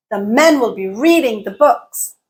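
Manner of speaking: MEN, READING, BOOKS stressed, rest reduced; content words stressed. Shown as a demonstration. Teacher quizzing on stress, content words emphasized. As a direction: punch MEN, READing and BOOKS, squeeze "will be". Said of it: "I stressed parts of the content word".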